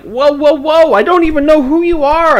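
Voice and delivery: high, loud alarmed whoa; startled yell. Retold or imitated. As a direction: back off a stranger, loudly. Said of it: "I'm like".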